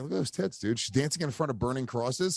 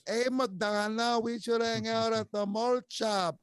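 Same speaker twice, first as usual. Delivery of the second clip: Fez impression; 9 semitones higher, slower than usual. Imitates Fez.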